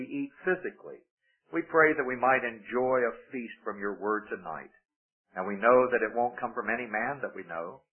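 hushed, earnest pulpit prayer. Acted. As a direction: pastor leading a reverent prayer before the sermon. Leads the congregation in prayer.

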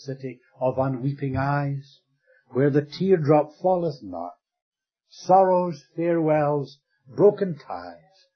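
recited like a poem, building on sorrows; poem recital. Acted. Preacher reciting a poet's verse to the congregation, declaimed. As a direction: declaim the verse with swelling feeling. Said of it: "The poet says".

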